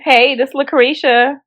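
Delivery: slow, casual phone greeting in a Black American voice; lay-back Black American hello, drawn out. Shown as a demonstration. Phone worker greeting a caller as Lucretia, Black voice. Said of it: "have your black voice".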